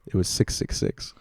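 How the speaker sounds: hushed, slow, whispered reveal; spooky hush. Real, not acted. Telling a friend the flight number, spooky whisper. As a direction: drop to an eerie whisper on the number.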